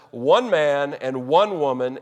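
"One man and one woman" slow, each "one" stressed; emphatic stress. Real, not acted. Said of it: "I'm putting emphasis on that".

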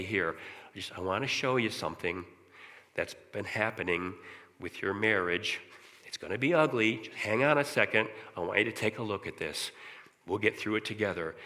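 walk him through it kindly; God taking his hand, soft and reassuring; gentle voice of God. Retold or imitated. God's voice guiding speaker.

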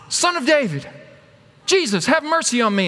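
high-pitched cry for attention; acted calling out. Blind beggar calling to passing Jesus, high cry. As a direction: call to someone walking away.

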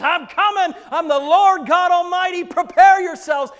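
high, loud royal announcement; commanding proclamation. Acted. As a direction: declare it like the Lord of all. Bridegroom's proclamation voiced.

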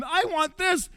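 the son at the trough suddenly sees it, voice climbing; son's dawning realization. Retold or imitated. Voicing prodigal son's realization.

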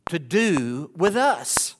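slow, drawn-out demon voice; a demon dragging out its challenge; demon's question. Acted. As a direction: stretch it out like a menacing spirit.

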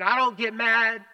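a mock vengeful boast; a hint of swagger in the saying; quoting a saying. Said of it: "we all know the saying".

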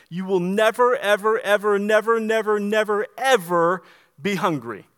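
insistent preacher's emphasis on never; emphatic never. Acted. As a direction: pound every never and ever. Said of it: "Jesus is emphatic here".

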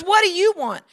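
put-on rough old man's bark; gruff what do you want. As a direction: snap it like a suspicious old man. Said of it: "Just like that".

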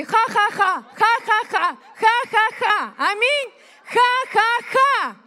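deliberate ha-ha-ha laugh; mock triumphant laughter. Shown as a demonstration. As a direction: laugh at your enemies on purpose. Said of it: "Начни смеяться над своими врагами".

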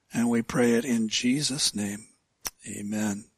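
prayer. Acted. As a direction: pray it gently to God. Leads a prayer.

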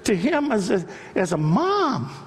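high, ringing sermon delivery; impassioned preaching. Real, not acted. Preacher declares God's "I am what I am" to congregation, impassioned. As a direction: preach it up to a climax, pitch held high.

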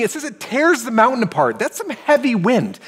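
ordinary talk, nothing marked

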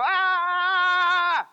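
put-on a sudden high, loud "Ah!" like a stubborn toddler; toddler's ear-plugging yell. Mimicking a toddler refusing to listen, with a loud shout. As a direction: block it all out with one loud childish cry. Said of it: "plug up their ears and go".

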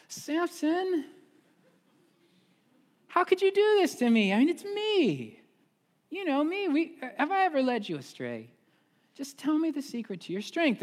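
high, wheedling, wounded voice; hurt pleading Delilah. Retold or imitated. Delilah begging Samson for his secret. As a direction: lay the guilt on thick.

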